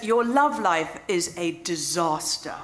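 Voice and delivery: slow, drawn-out verdict from a fortune teller; lightly voiced psychic, each word weighed; psychic's pronouncement. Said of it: "she goes".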